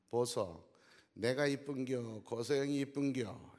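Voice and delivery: light Gyeongsang dialect, a bit slow; Gyeongsang wife. Retold or imitated. Gyeongsang wife asking her husband, in light dialect. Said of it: "경상도 아내가".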